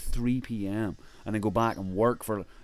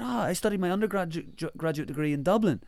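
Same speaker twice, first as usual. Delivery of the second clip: high, eager exclamation; acted delight; 10 semitones higher than usual. Consul telling an Irishman he studied in Dublin, delighted. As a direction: imitate someone thrilled at a shared connection.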